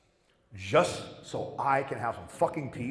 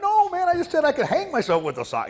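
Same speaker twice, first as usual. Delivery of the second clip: much higher, loud defensive yell; shouted protest; 8 dB louder than usual. Retold or imitated. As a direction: yell it out, defending yourself to the whole ward. Protesting to ward patients.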